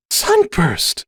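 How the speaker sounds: high, shocked exclamation; gasped. A narrator's reading. Starlight shocked at Sunburst, mild high gasp. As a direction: say it with a touch of shock. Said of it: "Starlight gasped".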